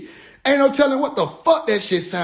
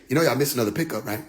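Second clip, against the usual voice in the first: mock alien voice; 8 semitones lower, 4 dB quieter, much faster than usual. Alien taunting the crew about missed pickup, low mock voice.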